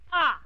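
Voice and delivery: sudden halt gasp. Shown as a demonstration. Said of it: "come to a sudden halt and say".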